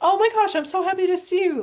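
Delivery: strained, tense, very high, overexcited gush. Explaining how tight vocal cords cause a strained voice: tense, high-pitched, overly excited. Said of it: "very elevated and and kind of tense, um, and a little overly excited".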